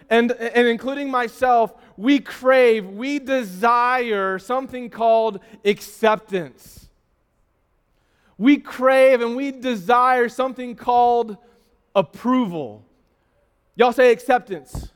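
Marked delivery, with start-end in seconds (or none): 2.0-6.9 preacher emphasis. Real, not acted. 8.4-12.8 preacher emphasis. Real, not acted.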